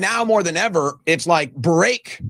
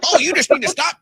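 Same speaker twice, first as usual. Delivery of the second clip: high, preachy sneer, the "you" leaned on; mock condescending advice; 6 semitones higher than usual. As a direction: parody smug lecturers. Mocking condescending advice-givers.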